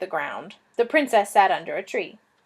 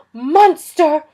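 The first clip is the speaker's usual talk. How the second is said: higher, loud cry of Monster; accusing cry; 5 semitones higher, 9 dB louder than usual. Acted. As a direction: hurl the word at the beast. Princess accuses the dragon.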